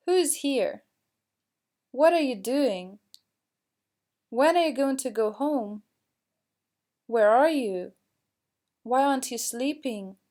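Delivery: each question drops at the end; teacher modelling falling intonation for WH questions; falling question tune. Shown as a demonstration. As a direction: model WH questions, letting "here", "doing", "home", "you" and "sleeping" fall. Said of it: "we need to use falling intonation".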